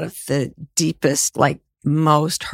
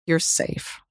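whispered reassurance; 7 dB quieter than usual. Real, not acted. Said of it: "what do you want them to take away".

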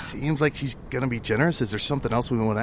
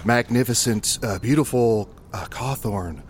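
fawning flattery. Acted. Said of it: "Oh, here we go".

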